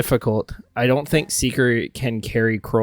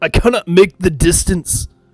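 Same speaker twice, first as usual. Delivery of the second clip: put-on loud, pitched-up fantasy dwarf accent, all-out; 5 semitones higher, 5 dB louder than usual. In a tabletop game, a player speaks as Seeker in a dwarvish accent. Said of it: "in his best dwarvish accent".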